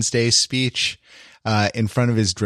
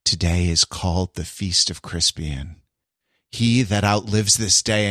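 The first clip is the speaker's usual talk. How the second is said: Shakespeare recitation; 6 semitones lower, 4 dB quieter than usual. Retold or imitated. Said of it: "saying the Saint Crispin's Day speech".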